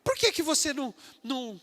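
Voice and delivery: high, jeering schoolyard taunt, mildly hammed; a light imitation of mocking teens; mocking classmates. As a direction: sneer at the believer's clothes like a teasing kid. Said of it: "Vão começar a chacotear".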